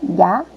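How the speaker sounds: "Gato" as two beats, "Ga... to"; teacher breaking "Gato" into separate syllables; split into syllables. Shown as a demonstration. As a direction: sound out "Gato" with a clear gap between syllables. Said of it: "as sílabas que formam o nome".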